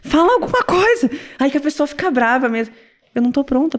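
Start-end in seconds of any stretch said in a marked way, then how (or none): 0.0-1.1 mock demand. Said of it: "ele fala pra mim".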